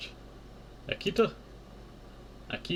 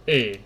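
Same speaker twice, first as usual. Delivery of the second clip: crying eh; 5 dB louder than usual. Acted. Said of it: "it's just funny saying eh".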